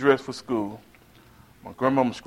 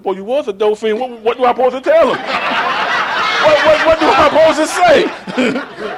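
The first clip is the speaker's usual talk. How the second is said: grandma's voice; 11 semitones higher, 6 dB louder than usual. Retold or imitated. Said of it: "he said".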